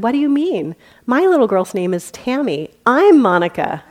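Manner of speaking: mock indignant mother, laughing; laughing punchline. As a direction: deliver the twist with a laugh.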